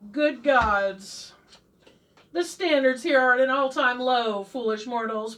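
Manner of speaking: sneering dark lord voice. Pretend. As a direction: disdain for foolish mortals. Villainous remarks to viewers.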